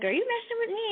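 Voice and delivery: can't believe what you're hearing; high mock incredulity at dad; incredulous. Retold disbelief at dad.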